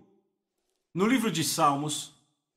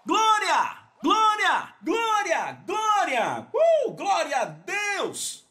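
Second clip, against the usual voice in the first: shouted praise; 10 semitones higher, much slower than usual. Real, not acted. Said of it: "shouted praise".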